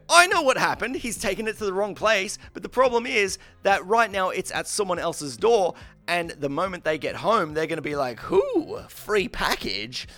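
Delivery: high-pitched, agitated retold complaint; re-enacted worked-up grievance; exasperated rant.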